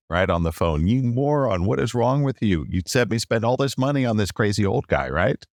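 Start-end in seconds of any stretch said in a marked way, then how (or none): 0.9-5.1 retold yelling. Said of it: "after I'm yelling at him".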